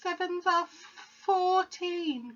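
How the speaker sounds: stuttered breathless gasp; terrified boy stammering the answer, gasping. Acted. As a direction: choke it out in fear. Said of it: "gasped Rupert".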